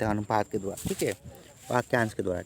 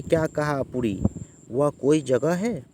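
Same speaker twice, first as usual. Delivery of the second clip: skeptical disbelief, the question drawn out slowly; a mild demo of scoffing at the choice; disagreeing; 3 semitones higher, slower than usual. Shown as a demonstration. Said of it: "असहमति से".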